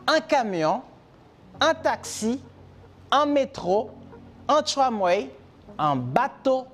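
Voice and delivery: slow chanted list of "en" phrases; drill list. Shown as a demonstration. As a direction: recite each transport phrase like a classroom drill. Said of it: "y tiene un acento".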